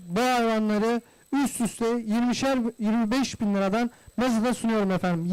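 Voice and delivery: rapid repetitive bid calling; auctioneer. Real, not acted. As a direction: call bids in steady rhythm. Livestock auction bidding calls.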